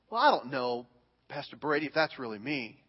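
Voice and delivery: meek doubtful congregant. Retold or imitated. Congregant doubting to Pastor Brady, quiet and unsure. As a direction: mumble it like a doubting churchgoer.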